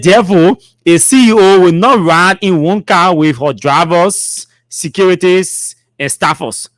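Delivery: slow, measured read-aloud; emphatic, spaced-out official reading; formal statement reading. Acted. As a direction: read it out deliberately, item by item. Reads the statement out again.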